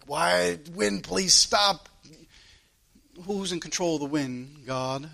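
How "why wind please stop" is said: grumbling. Retold or imitated. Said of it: "I just was grumbling like".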